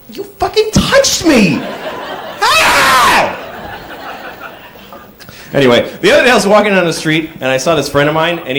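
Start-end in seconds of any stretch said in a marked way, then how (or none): 0.1-3.4 slow, high outraged yell; mock outrage. The stranger at the bus stop, slow and high with mock outrage. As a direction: overplay the offended stranger. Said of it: "he's gonna go".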